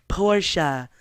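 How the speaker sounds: flat robotic voice saying "Porsche"; Google voice. Retold or imitated. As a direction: mimic the Google voice reading "Porsche". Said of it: "in, like, the Google voice".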